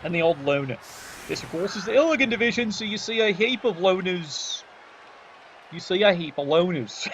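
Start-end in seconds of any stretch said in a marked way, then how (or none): 5.7-7.1 laughing. Real, not acted. Repeats his own line, laughing.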